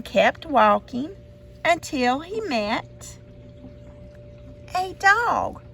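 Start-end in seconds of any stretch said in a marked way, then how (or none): none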